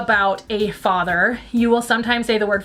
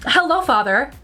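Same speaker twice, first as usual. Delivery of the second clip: mock-formal, higher-pitched greeting; prim and proper; 4 semitones higher than usual. A child walking up to their dad, mock prim and proper. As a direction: greet with exaggerated politeness. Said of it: "That's just too prim and proper".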